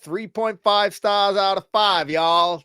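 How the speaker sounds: reluctant attempt at Southern American; Southern US accent. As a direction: bail out in a put-on Southern twang. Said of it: "Southern U S A, please".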